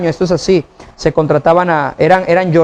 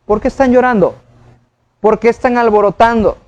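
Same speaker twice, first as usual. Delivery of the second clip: higher-pitched, lightly incredulous questions; ironic questioning; 4 semitones higher than usual. Retold or imitated. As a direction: ask as if puzzled, with gentle irony. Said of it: "casi como por ironía".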